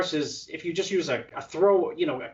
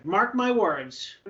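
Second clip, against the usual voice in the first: very slow, raised-pitch pronouncement; slow proclamation; 5 semitones higher, much slower than usual. Retold or imitated. Repeating his prediction as if on camera, slowly proclaimed. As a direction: stretch it out as a solemn prediction.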